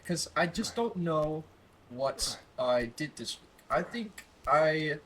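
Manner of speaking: hesitant amateur British accent. Shown as a demonstration. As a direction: think aloud in a put-on British accent. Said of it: "I'm gonna start doing a British accent".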